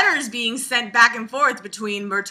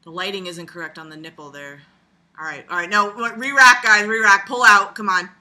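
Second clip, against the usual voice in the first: mock director; 4 semitones lower than usual. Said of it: "The director's like".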